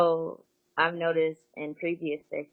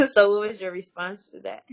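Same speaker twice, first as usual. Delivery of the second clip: higher-pitched question through a laugh; 6 semitones higher, 4 dB louder than usual. Real, not acted. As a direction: ask it while still getting over a laugh. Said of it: "like you just started laughing right now".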